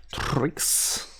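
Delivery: whispered. Real, not acted. Whispering to the cat Trix on stream. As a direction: whisper the name, unvoiced.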